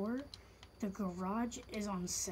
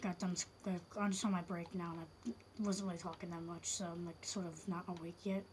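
quiet but clear; 2 semitones lower, 5 dB quieter, faster than usual. Real, not acted. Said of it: "if I sound quiet".

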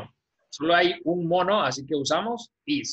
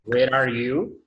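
"Where are you" said slowly with a rise; slow model question; 3 dB louder, slower than usual. Shown as a demonstration. Teacher repeats student's answer slowly. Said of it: "teacher models".

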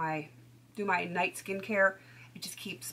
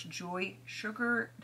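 slow, careful product name; really slow; 3 dB quieter than usual. Real, not acted. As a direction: say it slowly to get through the tongue-twister. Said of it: "have to say it really slow".

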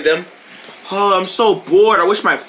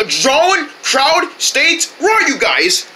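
calling out; 6 semitones higher, much slower than usual. Acted. Calling lost friends in jungle.

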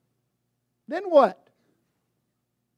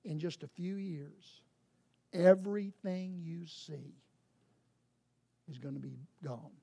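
grave Jesus; 5 semitones lower, 7 dB quieter than usual. Acted. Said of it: "what Jesus says is".

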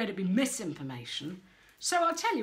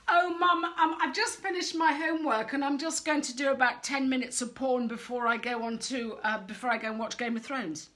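mock innocent teen; 3 semitones higher, 4 dB louder than usual. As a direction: play the sweetly innocent kid. Mocking a teen's confession.

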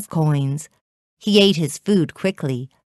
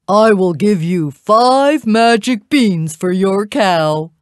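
louder, lightly voiced market man; trader's offer; 3 semitones higher, 5 dB louder than usual. A narrator's reading. Man offers Jack magic beans, persuading. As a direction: make a big storybook offer.

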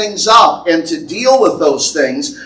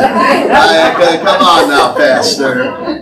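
laughing; much slower than usual. Real, not acted. Pastor laughs off teasing.

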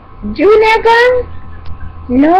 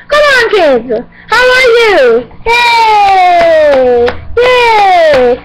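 excited shout; slower than usual. Acted. Host shouting hello to the kids, excited. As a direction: call out to the kids with big cheer.

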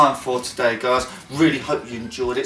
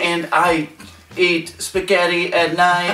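amateur mock New Yorker; New York accent; 2 semitones higher than usual. Continuing about daily meals, mock New York accent. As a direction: attempt a Brooklyn accent. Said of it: "my next accent is New York".

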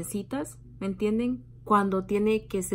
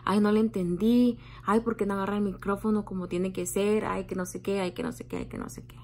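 snipe at the nervous contestant, then let it fade out; catty gossiping women. Retold or imitated. Imitating women mocking a contestant's shaking hand, snide gossip. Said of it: "todavía seguían hablando".

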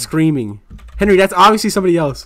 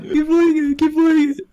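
pleading through laughter; 9 semitones higher than usual. Real, not acted. Begging to replay clip.

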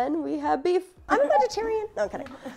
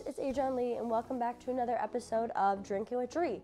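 stuffy, nasal voice from a blocked nose; 7 dB quieter than usual. Real, not acted. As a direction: talk through a stuffed-up nose. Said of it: "I'm sorry that I sound really nasally today".

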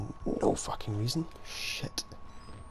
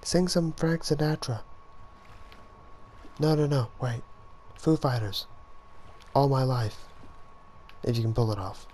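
1 American accent; 3 semitones higher than usual. Real, not acted. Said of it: "talking in an American accent".

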